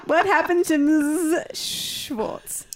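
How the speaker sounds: high, slow shocked line; dramatic slow question. Pretend. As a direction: drag it out in mock horror. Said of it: "cueing you with the hand signal".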